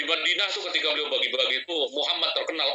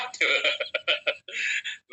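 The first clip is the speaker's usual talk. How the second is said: laughing. Retold or imitated. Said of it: "Nabi tertawa ngakak itu".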